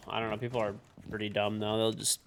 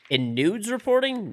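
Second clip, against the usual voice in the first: mishearing mock; 10 semitones higher, 5 dB louder than usual. Real, not acted.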